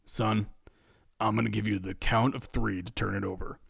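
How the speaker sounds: low, quiet stern dad; measured, low fatherly ultimatum. A narrator's reading. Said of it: "in his best dad voice".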